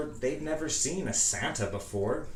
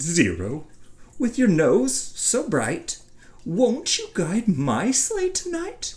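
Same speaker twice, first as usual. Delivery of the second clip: high, loud, slow theatrical appeal; drawn-out, hopeful plea; Jack imploring; 9 semitones higher, 6 dB louder than usual. A narrator's reading. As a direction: call grandly on your faithful dog. Jack implores his dog.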